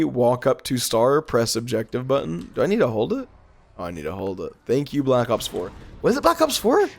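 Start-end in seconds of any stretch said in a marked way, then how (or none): 6.0-6.9 surprised question. Real, not acted. Suddenly unsure of game.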